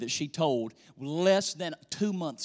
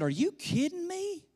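much higher, a startled squeak of disbelief; shocked disbelief; 12 semitones higher than usual. Retold or imitated. Father hearing his daughter's story, high startled disbelief. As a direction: sound like you can't believe your ears. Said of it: "I said".

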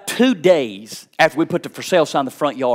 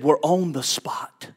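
put-on small child voice; 6 dB quieter, slower than usual. Daughter's voice, retold.

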